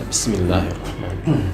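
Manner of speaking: hushed, low-pitched recitation; audible only to oneself. Shown as a demonstration. Worshipper reading so his own ears hear it, very soft. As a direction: recite under your breath, just audibly. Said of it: "harus terdengar oleh telinga sendiri".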